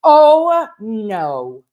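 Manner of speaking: sudden high squeal of fake alarm; a loud gasped oh, hamming up the horror; mock shock. Reacting to the Texas Roadhouse clue with mock alarm.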